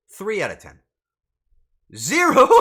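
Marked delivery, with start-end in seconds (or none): 1.9-2.6 loud, high shriek breaking into laughter; incredulous laughing. Real, not acted. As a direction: cry out in disbelief, then burst out laughing. Reacts to a zero rating.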